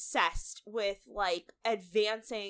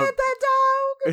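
mock Southern accent; 8 dB louder, much slower than usual. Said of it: "where does that accent come from".

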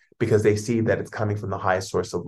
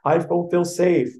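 much higher, louder panicked complaining; upset ego; 8 semitones higher, 6 dB louder than usual. Pretend. Frightened ego pleading with its owner, high and upset. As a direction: whine like a frightened ego losing everything. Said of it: "when the ego gets mad and goes".

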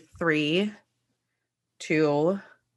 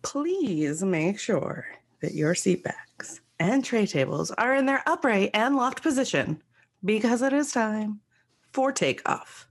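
flight attendant; 2 semitones higher than usual. Pretend. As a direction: read it like a pre-takeoff PA. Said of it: "You did a really good job".

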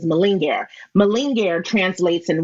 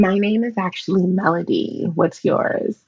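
sultry phone operator. Pretend. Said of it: "Can you do a little for us".

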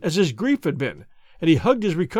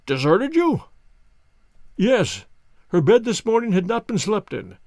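a weary, grieving banker, slightly raised; the broken banker complains of his trials; distraught old banker; 2 semitones higher than usual. Acted. Banker to Holmes, lightly voiced grief. Banker speaks and reads niece's letter.

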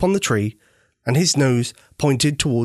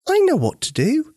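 put-on high, loud little girl's idea; little girl announcing her plan out loud; speaking up loudly. A narrator's reading. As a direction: pipe up eagerly and loud. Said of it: "little Susie spoke up loudly".

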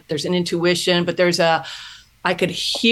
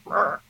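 disgusted growl; 4 dB quieter than usual. Real, not acted. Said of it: "I can't even say it without kinda going".

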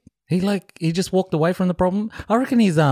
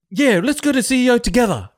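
mock fired-up customer; 6 semitones higher than usual. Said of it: "the guy's like".

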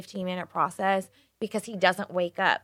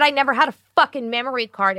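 slightly raised, louder indignant retort; mild retold exasperation; 5 semitones higher, 5 dB louder than usual. Pregnant wife answering sleep-talking husband, exasperated. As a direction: snap back in mock exasperation.

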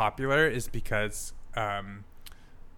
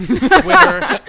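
Twitter blurted high and loud, sliding toward Twinner; 18 dB louder than usual. Shown as a demonstration. Host plugging socials, blurting Twitter loudly. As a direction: belt out Twitter as a joke. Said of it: "I said Twinner".

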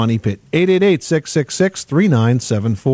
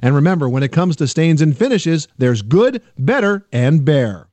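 upbeat sponsor read; 3 semitones higher than usual. Acted. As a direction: sell it, climbing through the list. Host reads sponsor ad.

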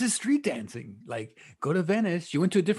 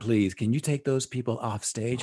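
lower-pitched snobbish teacher voice; haughty teacher; 6 semitones lower than usual. Acted. Teacher ordering street dancers off stage, mock haughty disgust. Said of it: "He would say".

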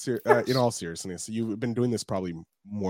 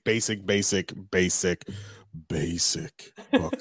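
laughing; 2 semitones lower, slower than usual. Real, not acted. Self-deprecating about own book.

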